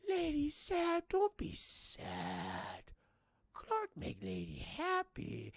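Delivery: slow, dopey caveman comfort; caveman brute voice. Retold or imitated. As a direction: talk like a simple brute. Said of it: "And he's like".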